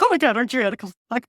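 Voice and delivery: very fast fan gushing; retold starstruck excitement. Guest recalling meeting a favorite author, excited rush. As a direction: blurt it out in a rush. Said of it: "I was so excited".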